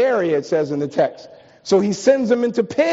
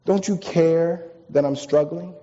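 pleading prayer. Retold or imitated. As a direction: ask God as if hurting and unheard. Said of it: "we say".

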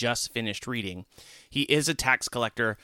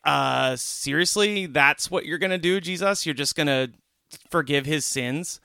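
incredulous disbelief; 3 semitones higher, 3 dB louder than usual. Retold or imitated. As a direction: pitch it up in disbelief at Jesus. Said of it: "They're like".

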